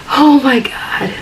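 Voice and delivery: high, slow, tearful sigh of words; choked up at the memory. Real, not acted. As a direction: say it through rising tears after a heavy sigh. Overcome while retelling her breakdown.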